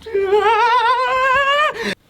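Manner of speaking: long, very high held cry; one sustained high-pitched squeal. Retold or imitated. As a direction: imitate a character's high wordless cry. Luffy's retold wordless reaction.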